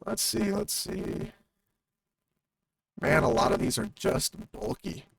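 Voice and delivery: glitchy robotic audio; robot voice from broken mic. Real, not acted. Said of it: "Now I sound like a robot".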